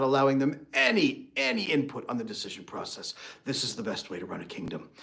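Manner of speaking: loud mock royal command fading to smug murmur; hammed-up tyrant king, then hushed self-praise; arrogant king. King shutting advisors out of the room, mock arrogant. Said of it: "And you're like".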